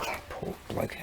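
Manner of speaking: breathy whispered aside; whispered pity. Real, not acted. Pitying the injured game soldier in a whisper. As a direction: whisper it in sympathy.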